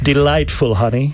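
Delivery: playful posh British English, lightly put on; mock British accent. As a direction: tease the British accent a little. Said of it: "l'accent british". (léger accent britannique moqueur)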